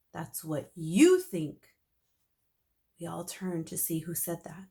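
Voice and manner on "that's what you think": a touch of a dramatic hero; mildly heroic principal; bold challenge. Acted. Hero's challenge.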